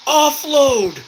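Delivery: high urgent yell; man down shout. Real, not acted. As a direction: call it out to the squad. Calling teammate to unload wounded.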